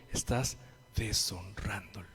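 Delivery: low, slow whispered rebuke; stern whisper. Real, not acted. Preacher rebuking a smoking congregant, whispered. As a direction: drop to a whisper to shame the listener.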